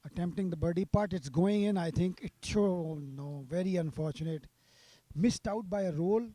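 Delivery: live play-by-play, rising with the putt; golf commentator. Real, not acted. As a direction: call the putt as it rolls. Live call of a birdie putt.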